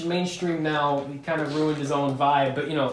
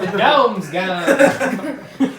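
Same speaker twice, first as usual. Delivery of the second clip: slow, drawled Southern movie line; mock the dumb Southern hero; hammed-up Kentucky drawl; goofy Southern accent; 4 semitones higher, 6 dB louder, much slower than usual. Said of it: "He talks like he forgot where his truck was".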